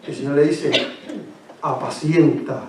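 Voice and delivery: low, soft retelling of Peter and the Lord; hushed storytelling. Acted. Preacher retelling Jesus and Peter to the congregation, hushed. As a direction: draw them in with a hushed voice.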